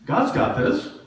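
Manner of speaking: high, loud declaration; loud mantra. Retold or imitated. Pastor reassuring herself during lean times, loud high declaration. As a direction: proclaim it to convince yourself. Sermon mantra, shouted take.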